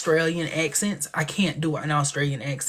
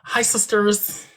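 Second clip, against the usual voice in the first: slow, higher, drawn-out greeting; James Charles greeting; 5 semitones higher, much slower than usual. Retold or imitated. Vlogger greeting fans, slow and higher. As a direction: stretch out the sisters greeting. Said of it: "James Charles".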